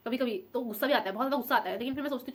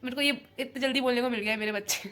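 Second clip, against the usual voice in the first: giggling fondly. Real, not acted. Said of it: "मैं ऐसे बोलती मेरे बच्चे".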